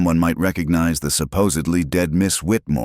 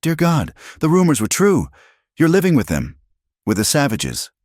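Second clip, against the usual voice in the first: horrified; 11 semitones higher than usual. A narrator's reading. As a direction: recoil in shocked disgust. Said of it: "followed quickly by horror".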